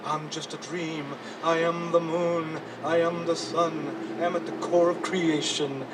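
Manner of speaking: dream figure. Acted. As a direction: speak like the moon itself answering.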